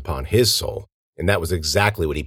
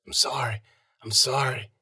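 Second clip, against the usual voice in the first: soft, higher-pitched plea; faint apology; 6 semitones higher, 6 dB quieter than usual. A narrator's reading. Stabbed old man apologises, faint and soft. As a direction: murmur it weakly, pitched up.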